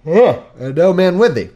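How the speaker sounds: slow, loud, lightly voiced wary priest; afraid priest. Ahimelech the priest nervously questions David, slow mock fear. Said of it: "was afraid at the meeting of David".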